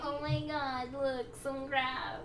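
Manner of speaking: high, drawn-out wonder; mock awe. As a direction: gasp over it in hammed-up amazement. Acting awe at seeing green.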